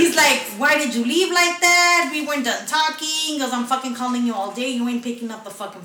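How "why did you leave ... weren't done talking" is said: imitating angry boyfriend. Boyfriend's angry call retold.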